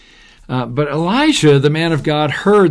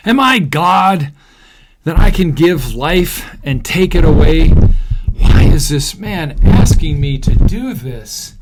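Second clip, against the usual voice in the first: higher, louder, slow outburst; dismayed cry; 5 semitones higher, 7 dB louder than usual. Acted. King of Israel reading the letter, loud dismayed outcry. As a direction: let the king's panic burst out. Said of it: "tore his clothes in dismay".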